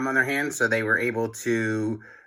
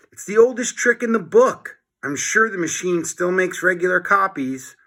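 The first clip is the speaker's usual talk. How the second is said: confident George; 8 semitones higher than usual. A narrator's reading. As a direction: brush off the worry, cocky. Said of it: "said George".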